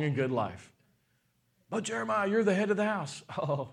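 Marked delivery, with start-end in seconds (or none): 1.7-3.2 higher-pitched voice of a protesting listener; playful imitation of a challenger; mock objector.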